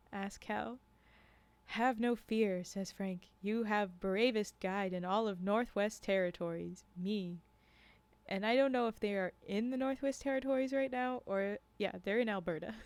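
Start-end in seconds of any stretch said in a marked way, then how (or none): 0.1-7.4 measured read-aloud with lightly voiced dialogue; story narration. A narrator's reading. Narrator reading a tale of guides and hunters to a stream, storytelling. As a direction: read it as a first-person storyteller.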